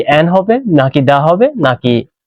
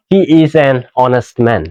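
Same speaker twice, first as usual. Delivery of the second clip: slow model sentence; 4 semitones lower, much slower than usual. Shown as a demonstration. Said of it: "slow model sentence".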